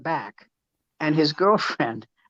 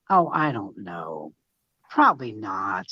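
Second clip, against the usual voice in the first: deadpan; 8 semitones lower, slower than usual. Retold or imitated. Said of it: "I go".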